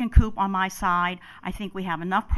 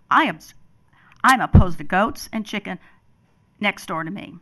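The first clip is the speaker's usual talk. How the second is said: raised, emotional protest; louder, emotional objection; 7 dB louder than usual. Real, not acted. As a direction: push it out loud, getting worked up. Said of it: "I'm emotional".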